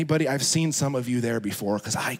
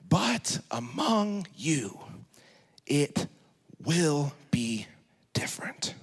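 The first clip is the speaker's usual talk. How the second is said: slowing into a whisper; 3 dB quieter, slower than usual. Acted. Sermon climax slowing to whisper.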